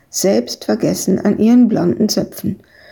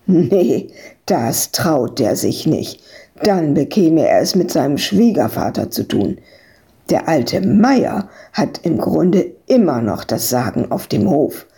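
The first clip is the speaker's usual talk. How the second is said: lightly voiced friend in a lower register; reassuring Piet; 4 semitones lower than usual. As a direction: answer low and sure, as a reassuring friend. Voices Piet answering Ewke.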